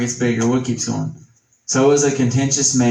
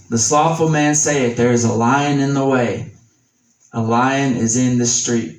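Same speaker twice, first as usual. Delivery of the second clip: measured, slightly raised reading of scripture. Acted. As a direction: read the verse with weight, a touch slower. Reads Proverbs in scripture voice.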